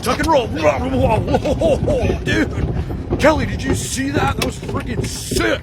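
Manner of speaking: excited high voice. Acted. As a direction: hype it like a stunt kid. Pet's excited stunt.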